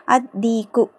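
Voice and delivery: doubled D in "அத் தீக்கு", no L; alif joined to dal. Shown as a demonstration. Teacher shows alif joining dal, held D in "அத் தீக்கு". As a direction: run A straight into D in "அத் தீக்கு". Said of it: "அலிஃபை டைரக்டா தாலோட இணைச்சாச்சு".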